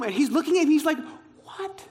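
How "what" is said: mock bewilderment, slow and drawn out; stunned disbelief. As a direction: start high and hushed, then stretch each word. Friend stares, baffled by his running.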